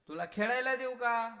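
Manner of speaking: high, coaxing voice of a mother; a mother pleading with her baby. Retold or imitated. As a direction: coax the little one gently but loudly.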